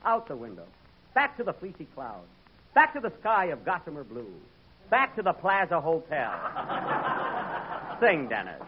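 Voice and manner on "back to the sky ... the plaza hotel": usual speaking voice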